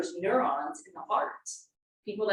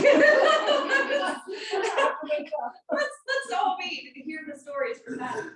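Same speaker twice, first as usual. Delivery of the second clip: high-pitched, laughing through the words; 12 semitones higher, slower than usual. Real, not acted. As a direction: crack up while joking. Laughing at her own joke.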